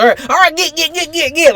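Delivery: high, loud hick cop hurrying him out; a caricatured redneck cop going get, get, get; Southern hick cop. Acted. Retelling the new cop's switch, high hammed-up hick. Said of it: "Southern hick".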